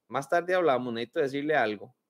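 quick, serious "we need to talk" voice; mock-ominous warning from a partner. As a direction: partner teasing the pastor with a vague, foreboding tone. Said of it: "y así en ese tono".

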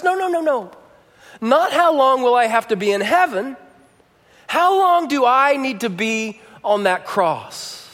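put-on a child correcting her mother; insistent little girl. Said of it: "And Ruby says".

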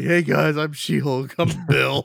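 mock girly voice, lightly done; man doing a woman's voice. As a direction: play a guy faking a girl voice. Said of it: "talking with the girl voice".

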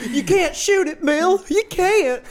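laughing through it; giggling while speaking. Real, not acted.

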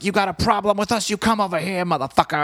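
hammed-up rocker picking a fight; mock tough-guy challenge. Frontman daring Russia to come over, mock angry shout. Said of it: "he's like".

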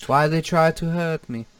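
lightly put-on European accent; rough try at an action star's accent; Jean-Claude Van Damme. Shown as a demonstration. Trying a hard impression, lightly accented action-star voice. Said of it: "Kinda comes off as Tommy Wiseau".

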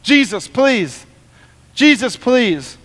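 slow, drawn-out plea; acted slow begging. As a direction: plead earnestly, stretching each word. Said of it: "Begged him".

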